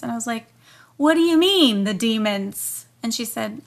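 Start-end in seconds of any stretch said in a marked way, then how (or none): 1.0-2.9 retold shock. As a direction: react in shocked disbelief to the word demons. Retold shocked reaction to demons.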